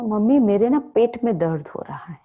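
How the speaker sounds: a hint of a whiny little child; lightly voiced child faking a tummy ache; child pleading with mummy, lightly played; child complaining to mum. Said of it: "तो माँ से क्या कहते हैं".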